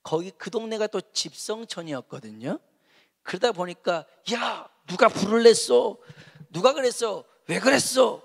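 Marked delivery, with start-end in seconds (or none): 4.3-8.2 raised, higher voices of accusing villagers; mock indignant outcry. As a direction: act out neighbors demanding a culprit. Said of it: "막 이렇게 말들이 나오기 시작해요".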